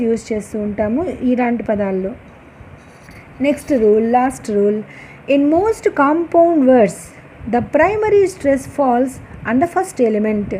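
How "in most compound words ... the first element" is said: slow dictation. Shown as a demonstration. Teacher dictating the rule to the class, very slow. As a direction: rule read out very slowly, word by word.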